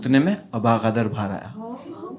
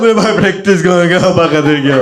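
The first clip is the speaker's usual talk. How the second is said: retold crying speech; 3 semitones higher, 7 dB louder than usual. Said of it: "वो रोते रोते बोल रहा है".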